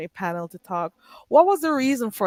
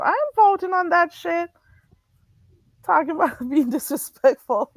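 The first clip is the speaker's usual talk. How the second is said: 1 laughing mockery; 8 semitones higher than usual. Real, not acted. Mocking the poll, laughing.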